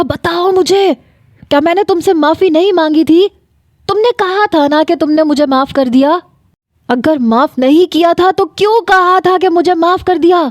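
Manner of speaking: high, pleading rage through a door; pounding-door rage. Acted. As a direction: demand an answer, voice pushed up high. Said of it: "وہ میرا دروازہ پیٹنے لگا".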